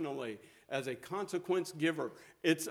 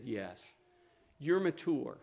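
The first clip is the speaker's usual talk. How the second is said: gentle reassurance; 3 semitones lower than usual. Retold or imitated. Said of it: "he's so gentle with her".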